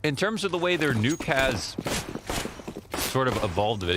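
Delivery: talking with the hiccups. Real, not acted. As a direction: speak through hiccups. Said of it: "excuse me, got the hiccups".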